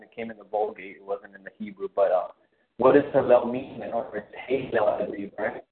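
breaking up phone line; cutting out. Real, not acted. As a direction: signal dropping in and out. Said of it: "you're cutting out bad".

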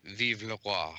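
put-on spoken with a French accent. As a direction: toast the king in a French accent. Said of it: "I cannot do a French accent".

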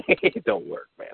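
laughing through the words. Real, not acted. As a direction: chuckle it out slowly. Repeats complaint while laughing.

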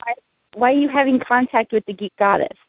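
ordinary delivery

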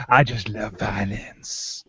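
put-on slow, low East Asian villain accent. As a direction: stretch out I just love violence in an East Asian accent. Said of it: "Why does he sound Asian?".

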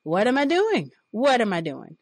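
grinning, hands up, playing innocent; mock innocent grin. Boss teasing her after groping, grinning mock innocence. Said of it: "he would grin, throw his hands".

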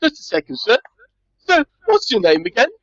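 high, put-on helper voice; simple-minded servitor. Servitor asks visitor's name.

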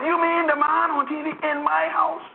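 high, slow, incredulous mock Haitian accent; slow, high-pitched Haitian granny; Haitian old lady. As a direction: draw it out like an astonished old Haitian woman. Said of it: "she could hardly speak English".

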